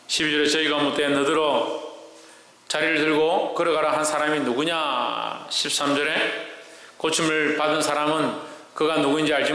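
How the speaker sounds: low, even-toned Bible reading; scripture reading. Acted. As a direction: read the verse in a level, measured chant. Reads scripture to congregation.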